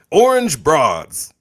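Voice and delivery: loud guess. Acted. Blurting a guess.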